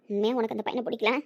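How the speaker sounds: ordinary talk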